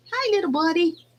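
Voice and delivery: high cooing to a chick. Real, not acted. Talking sweetly to her baby chicks, high coo.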